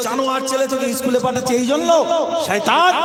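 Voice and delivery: high-pitched scolding, building to the last word; very angry mother. Acted. Mother berates son sent to school, very angry. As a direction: berate him, punching the final insult. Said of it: "ওর মা এবার খুব রেগে গেছে".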